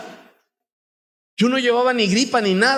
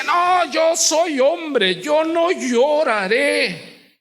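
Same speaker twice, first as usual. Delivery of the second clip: high, slow, stubborn declaration; mock the tough man who won't cry; hammed-up manly boast; proud macho vow; 8 semitones higher, much slower than usual. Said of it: "Porque yo decía".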